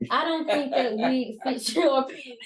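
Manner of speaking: slow, drawn-out mock diplomacy, breaking into laughter; polite rephrasing. Shown as a demonstration. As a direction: put it delicately while fighting a laugh. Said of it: "Or you can say".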